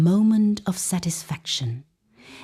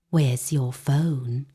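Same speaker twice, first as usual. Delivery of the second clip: menacing gunman; 6 semitones lower, much slower than usual. Acted. Masked gunman demands phone.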